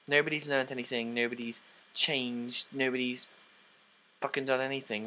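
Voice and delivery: frustrated rant. Real, not acted. Ranting about the ending.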